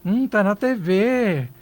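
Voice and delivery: mock-sweet, begrudging praise; envious fake praise. Shown as a demonstration. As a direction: congratulate through clenched envy. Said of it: "Tô falando pra você, que bacana".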